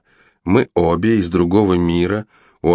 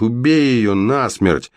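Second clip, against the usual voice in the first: higher and slow, hammering it out; fierce urging; 5 semitones higher, slower than usual. Acted. Brother urges his sister to kill the witch. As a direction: spell out the order. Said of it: "закричал ей брат".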